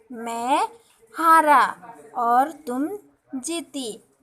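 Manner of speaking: put-on slow, expressive storybook reading for kids; reading a story to children. Teacher reading the lion and fly story to her class, slow and expressive. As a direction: read it out slowly so the children can follow.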